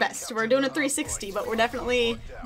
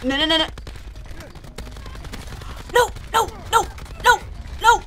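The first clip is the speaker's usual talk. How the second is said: loud rising no, no, no; desperate shouting; 7 semitones higher, 4 dB louder than usual. Real, not acted. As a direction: yell it as you lose the fight. Frantic in-game yelling.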